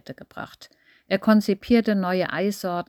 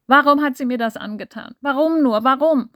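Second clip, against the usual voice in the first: loud, high anguished cries; sobbing fit; 6 semitones higher, 7 dB louder than usual. Acted. Grieving Massimo wails at the table in a sobbing fit. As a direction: wail it out in theatrical grief. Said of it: "Er bekam einen heftigen Weinkrampf".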